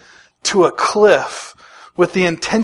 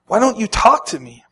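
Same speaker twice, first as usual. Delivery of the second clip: a mild, higher demand, not shouted; demanding Pilate; 4 semitones higher than usual. Retold or imitated. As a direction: press Jesus for an answer, lightly voiced. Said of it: "Pilate demanded".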